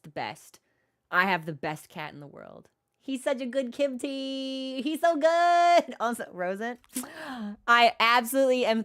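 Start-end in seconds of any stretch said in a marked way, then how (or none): 3.0-5.9 cooing at cat. Real, not acted. Cooing over her cat.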